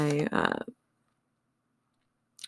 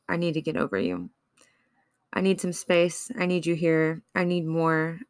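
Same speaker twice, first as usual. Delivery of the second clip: spoken-word list, worn and wanting; list poem reading. Acted. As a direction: chant the needs one by one like a confession.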